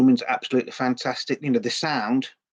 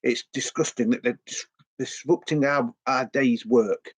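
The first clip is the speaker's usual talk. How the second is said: mock upper class disapproval, slowing at the end; posh complainer. Upper class passer-by complaining about the noise, mock posh. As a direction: sniff it like a stuffy city gent. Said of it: "upper class people, you know, and they're going".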